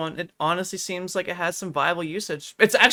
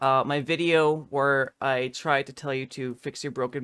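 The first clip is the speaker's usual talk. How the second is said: mock tearful apology; 6 semitones lower than usual. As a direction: play the teary YouTuber apology, overdone. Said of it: "I'm just tearing up a bit more".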